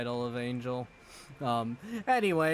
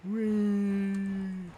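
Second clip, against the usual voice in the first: high, gleeful shout; excited whee; 7 semitones higher than usual. Real, not acted. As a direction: ride the thrill. Gliding down with joy.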